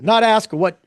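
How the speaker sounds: orator's Boston accent, badly faked; Kennedy. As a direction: have a clumsy go at a Boston accent. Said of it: "I can't do a Boston accent".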